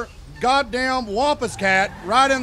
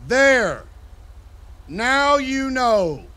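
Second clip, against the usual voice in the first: smug finality; 3 semitones higher, 3 dB louder, much slower than usual. Retold or imitated. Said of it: "and says".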